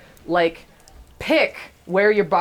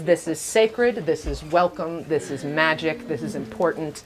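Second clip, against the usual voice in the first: slow reverent; 2 semitones lower than usual. Retold or imitated. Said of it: "addressed it as".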